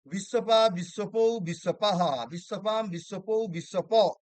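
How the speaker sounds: rhythmic rote recitation of word forms; declension recitation. Acted. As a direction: chant the case forms like a drill, lightly.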